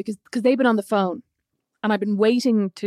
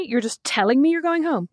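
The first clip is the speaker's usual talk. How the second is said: mock-incredulous boss, slow and higher; retold indignation; 5 semitones higher, slower than usual. Boss to employee asking to leave sick, imitated indignant disbelief.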